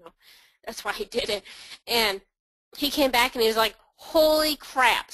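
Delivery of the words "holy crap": drawn-out high gasp of disbelief; a slow, loud holy crap of shock; shocked exclamation. Retold or imitated. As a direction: stretch it out, stunned and loud. Partner shocked by lost rankings.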